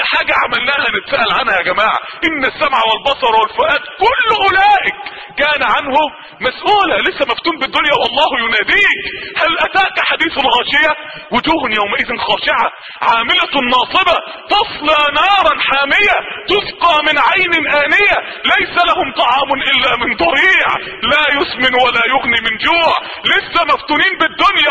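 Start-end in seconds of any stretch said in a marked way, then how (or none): 2.3-6.9 forceful recitation. Acted. Preacher warning listeners they will be questioned, forceful chant. Repeats verse. 9.4-22.9 dramatic recitation. Acted. Recites Surat al-Ghashiya, loud slow.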